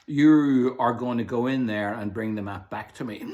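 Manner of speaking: put-on captain ordering the boy into the vaults; commanding pirate captain. A narrator's reading. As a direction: boom it like a pirate boss.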